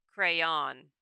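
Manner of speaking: "Crayon" said as cray-awn; "Crayon" in two syllables, cray-awn; rhymes with dawn. Shown as a demonstration. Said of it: "Second syllable rhymes with dawn".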